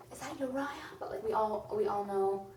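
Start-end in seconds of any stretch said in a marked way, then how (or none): 0.1-0.7 surprised recognition. Retold or imitated. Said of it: "book readers are like".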